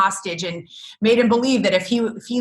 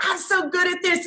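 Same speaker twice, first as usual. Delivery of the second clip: mock self-congratulation; 8 semitones higher than usual. Parent after one good day, mock self-congratulation. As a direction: play a parent briefly pleased with herself. Parent briefly pleased with herself.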